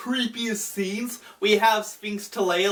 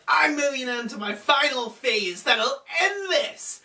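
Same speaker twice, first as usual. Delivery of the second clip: higher, mock-dramatic declaration; Kaiba; 6 semitones higher than usual. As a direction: announce it like a hammed-up anime rival. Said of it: "he's like".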